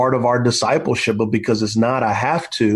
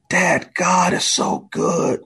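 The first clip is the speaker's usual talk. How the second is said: higher, slow and drawn-out; awed insistence; 5 semitones higher, slower than usual. Retold or imitated. Injured son to dad, slow awed insistence.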